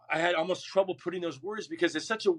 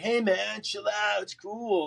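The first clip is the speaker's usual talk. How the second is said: imitated placating dad; 7 semitones higher, slower than usual.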